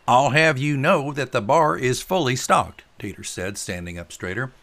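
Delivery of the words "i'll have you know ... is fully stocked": loud, slow, high boast; mock-offended host, loud and drawn out; indignant retort. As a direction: draw yourself up and announce it proudly. Tater retorts, drawing himself up.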